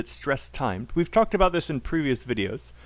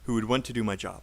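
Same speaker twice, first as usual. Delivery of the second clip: lower, linked chunk with "would" and "to do" tiny; unstressed function words; 5 semitones lower, faster than usual. Shown as a demonstration. Teacher building up the sentence for repetition, reduced words. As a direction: run "who would want to" together, small words reduced. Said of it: "all of these words are unstressed".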